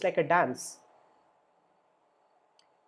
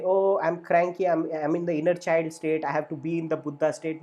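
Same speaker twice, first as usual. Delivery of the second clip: mock cranky; 6 dB louder than usual. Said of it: "You don't have to say".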